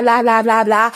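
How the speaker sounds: ordinary talk, nothing marked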